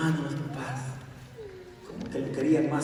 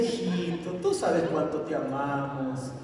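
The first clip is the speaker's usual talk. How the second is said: sweet coaxing mother; slower than usual. Acted. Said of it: "le habló bien bonito".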